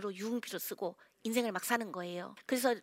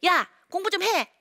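high, loud mock nagging; loud imitation of a parent ordering study; 7 semitones higher, 6 dB louder than usual. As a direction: yell it like an exasperated mom. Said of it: "부모님들은 그렇게 얘기하죠".

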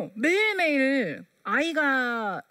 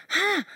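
a sharp, higher, louder taunting "하!"; mock scornful "하!"; 9 semitones higher, 4 dB louder than usual. Practising the mockers' jeer with her son, scornful "하!". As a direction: bark it like a scoffer. Mocking laugh practised in play.

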